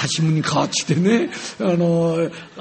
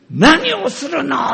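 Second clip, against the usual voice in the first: higher, louder indignant outburst; angry son; 8 semitones higher, 7 dB louder, slower than usual. Retold or imitated. Son scolding his father at the table, indignant. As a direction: protest in shock. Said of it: "ってこう言うわけ".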